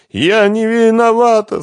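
high, loud, slow sobbing protest; through tears. Acted. Svetlana pleads her innocence to Renat through tears. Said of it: "сквозь слёзы произнесла Светлана".

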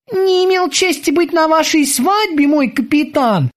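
high, eager sailor's voice; squeaky dutiful boatswain. Acted. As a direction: report to the captain like a keen young sailor. Boatswain Kiki answers.

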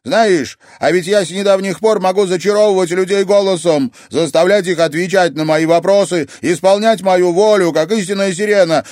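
put-on menacing young siren; threatening anger. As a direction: warn her you could force the truth. Luiza threatens with siren power.

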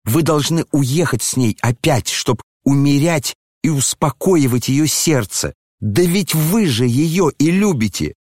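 mocking the prince. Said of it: "Вы и давеча сказали мне просто".

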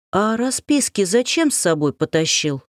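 ordinary delivery

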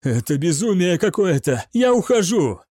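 panicked outburst. Acted. Gaunt panics.

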